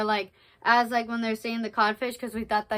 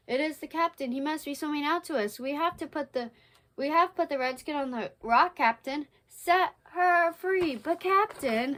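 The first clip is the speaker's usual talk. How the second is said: stage pirates; 5 semitones higher than usual. Acted. Reads out the pirates' lines.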